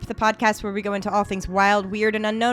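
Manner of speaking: brisk, upbeat show opener; podcast intro. Acted. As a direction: welcome the listeners like a host.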